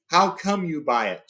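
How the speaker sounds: slow, rising mock anger; shouted in rage. Thorin shouts at Bard, slow and angry. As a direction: Thorin demanding, voice gathering rage. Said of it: "shouted Thorin in a gathering rage".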